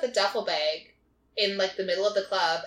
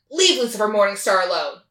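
louder, acted-out threat; retold order to back off, raised voice; mock stern warning; 7 dB louder than usual. Storyteller voicing a woman warning off a man, mock stern.

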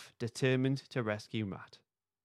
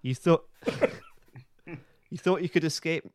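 gloating villain; 5 semitones higher, 3 dB louder than usual. Acted. Villain gloating at trapped hosts.

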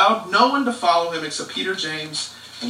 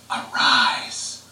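whispered arise; 8 semitones lower than usual. Acted. Jesus to the little girl, a whispered "arise".

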